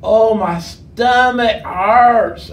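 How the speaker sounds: slow, loud, hammed-up groan; bellyaching fish. Fish complaining after three days with Jonah inside, hammed-up bellyache. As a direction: moan it out like a fish with a sore belly. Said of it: "the fish goes".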